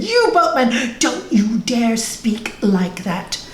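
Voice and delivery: mild acted indignation; angry disciple. Angry disciple warning the boatman about his master, mildly indignant. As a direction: scold with measured, emphatic warning. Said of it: "this disciple got so angry".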